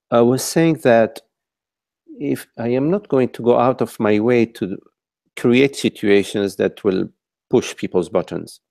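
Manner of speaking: measured, deliberate pacing. Real, not acted. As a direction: repeat it slowly and carefully. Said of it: "speak a little bit slower".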